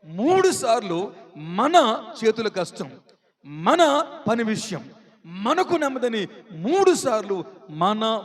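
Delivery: slow delivery leaning on మన; మన singled out slowly and deliberately; stress on మన. Shown as a demonstration. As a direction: draw out మన before each phrase. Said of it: "మీరు బాగా గ్రహించాలి వాక్యాన్ని".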